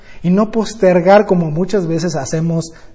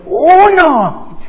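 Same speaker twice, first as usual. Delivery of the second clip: race count; 9 semitones higher, 6 dB louder than usual. Retold or imitated. Grandpa starting a race count.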